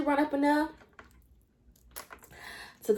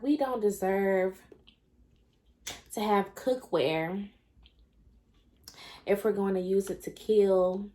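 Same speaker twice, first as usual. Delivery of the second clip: sarcastic. Retold or imitated. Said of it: "being so sarcastic".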